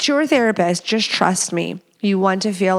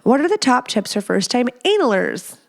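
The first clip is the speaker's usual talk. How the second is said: amused mock emphasis; 4 semitones higher than usual. Shown as a demonstration. Host rereading a listener's odd word, amused. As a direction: reread with a touch of higher, teasing lilt. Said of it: "The analers".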